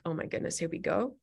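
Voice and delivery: quiet breathy aside; whispered dread. Retold or imitated. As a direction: whisper it like bracing for trouble. Voicing the driver's worried thoughts.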